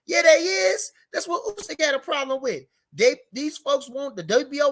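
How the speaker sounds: fired-up exasperated outburst. Real, not acted. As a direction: burst out in exasperation, then ease off. Heated rebuttal of the arguer.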